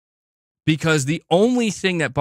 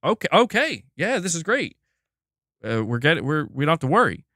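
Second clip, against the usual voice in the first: mock relieved Sony; 5 semitones higher than usual. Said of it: "They would have been like".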